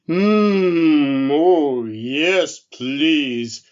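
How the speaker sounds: slow, loud, lumbering bear voice; a big drowsy bear just woken, yawning through it; sleepy friendly bear. Acted. The bear asks the elf for soup, slow and sleepy.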